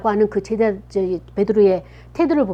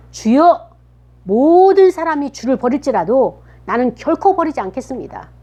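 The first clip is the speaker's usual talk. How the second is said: raised, fervent acted pledge; emphatic vow; 4 semitones higher, 5 dB louder than usual. Peter answering Jesus's warning, vowing loyalty emphatically. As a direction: call out, then swear it with stretched emphasis.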